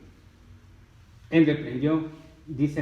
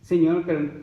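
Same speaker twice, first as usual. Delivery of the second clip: loud, higher-pitched acted objection; protesting plea; 5 semitones higher, 9 dB louder than usual. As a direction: break in pleading with the Lord. Acts believer interrupted by Jesus. (protesta suplicante actuada)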